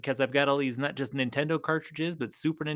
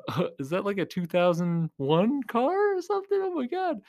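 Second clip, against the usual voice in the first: mocking kids; 6 semitones higher than usual. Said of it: "they're like".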